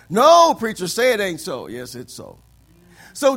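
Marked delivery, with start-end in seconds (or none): 0.1-1.7 mock protest.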